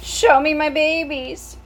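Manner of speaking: high, loud and slow, worn out; exhausted mother. Acted. Tired mouse mother asking for her babies after birth. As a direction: call weakly for her babies. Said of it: "said the exhausted mother".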